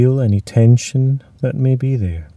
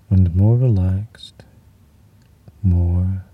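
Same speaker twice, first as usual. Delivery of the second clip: whispering; 3 semitones lower than usual. Acted. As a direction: breathe the words out. Trails into whisper.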